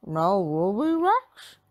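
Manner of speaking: slow dog-speech mumble; Scooby-Doo voice. A narrator's reading. Scooby mourning his lost snacks in dog speech. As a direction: sad dog mangling words. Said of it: "said Scooby".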